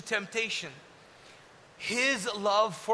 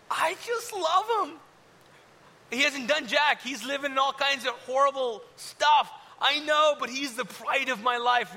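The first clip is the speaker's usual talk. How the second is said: doting father; 4 semitones higher than usual. Acted. God voiced fondly, higher.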